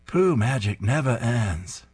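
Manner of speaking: slow, hammed-up Maine accent; a bad Maine accent, drawn out. Old sailor telling his tall tale, slow hammy Maine accent. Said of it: "terrible attempt at a Maine accent".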